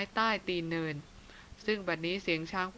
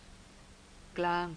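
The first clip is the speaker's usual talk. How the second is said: softer whispered name; 5 dB quieter, much slower than usual. A narrator's reading. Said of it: "พลางกระซิบว่า".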